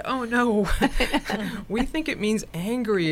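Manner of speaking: retelling the joke through laughter; laughing while retelling. Retold or imitated.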